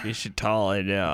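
quick words through unmoving lips; talking with mouth closed. Acted. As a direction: speak like a ventriloquist, lips still. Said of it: "I'm trying to talk without moving".

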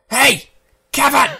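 loud call across the course. Acted. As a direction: shout to get his attention. Counselor calls out to camper.

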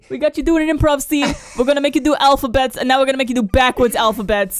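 loud, high host announcement; game show host. Pretend.

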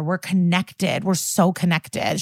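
slow, drawn-out mock sincerity; slow insistence. Benson wins over Stucky, slowly insisting. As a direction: stretch it out to convince him.

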